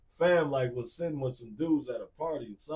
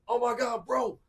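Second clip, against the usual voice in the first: higher, thrilled gasp of news; excited sister; 11 semitones higher, 5 dB louder than usual. Retold or imitated. Sister phoning her brother in the morning, excited and high. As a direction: burst out like a sister with big news. Sister calls about newspaper.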